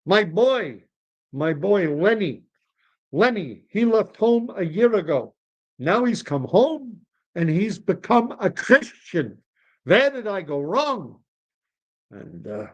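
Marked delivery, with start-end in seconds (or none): 0.0-11.2 high, swooping lament; lamenting old man.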